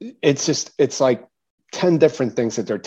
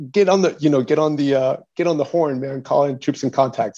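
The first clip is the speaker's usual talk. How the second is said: imitating a commander, higher at the start; raised urgent order, easing off; urgent retold order; 4 semitones higher than usual.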